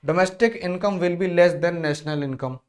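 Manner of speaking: drawn-out reading of the option; slow dictation of choices. Shown as a demonstration. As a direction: read each option slowly for the class.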